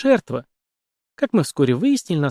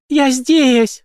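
higher, louder cry; 12 semitones higher, 6 dB louder than usual. A narrator's reading. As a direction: call out to the police. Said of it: "вскрикнула Мэгги".

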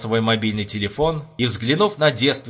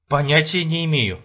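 drawled; 5 semitones higher than usual. A narrator's reading. Captain has no idea where he went, drawling. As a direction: stretch it out, at a loss. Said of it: "протянул Кочегарин".

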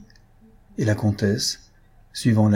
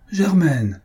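raised, falling call of her name; higher-pitched appeal, drawn downward; imploring call; 7 semitones higher than usual. Acted. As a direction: call out to a woman about to leave. Count calls after departing woman.

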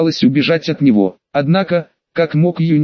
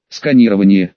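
cute AI voice; 7 semitones lower than usual. A narrator's reading. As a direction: read it like a scanner's chirp. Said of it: "Искусственный интеллект с милым голосом произнёс". (милый голос ИИ)

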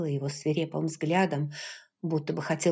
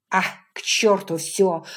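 louder, tossing it away; reckless outburst; 6 dB louder than usual. A narrator's reading. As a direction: say it as if giving up caution. William gives up, exclaims.

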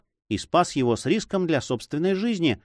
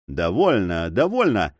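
sudden exclamation; 5 semitones lower than usual. A narrator's reading. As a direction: cut in with a pained "enough". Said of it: "вдруг воскликнул лесник".

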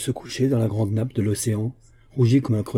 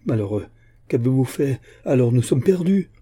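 alarmed outcry rising higher and louder; cry out; 4 semitones higher, 5 dB louder than usual. Acted. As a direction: Aramis crying out in dismay. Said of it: "s'écria l'évêque".

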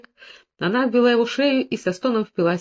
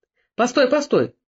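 raised, higher-pitched call to halt; 5 semitones higher, 3 dB louder, slower than usual. A narrator's reading. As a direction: call after someone leaving, urgently. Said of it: "Тогда Северьян крикнул ему".

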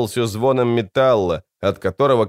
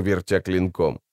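ordinary delivery, nothing marked

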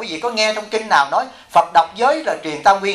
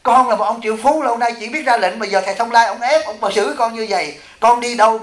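higher, aggrieved whining of a proud disciple; imitating a complaint; 4 semitones higher than usual. Monk mimicking the millionaire complaining about his teacher, higher aggrieved whine. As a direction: play the wounded millionaire pleading his case. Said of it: "nó từng tâm sự với chú Đại".

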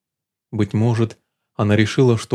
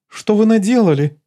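high, upset accusation; high worried outburst; agitated; 10 semitones higher, 3 dB louder than usual. Acted. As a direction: fluster and blame him. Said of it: "совсем разволновалась Лулу".

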